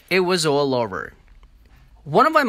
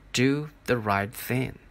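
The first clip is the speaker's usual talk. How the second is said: slow echo. Acted. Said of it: "grandfather's voice saying".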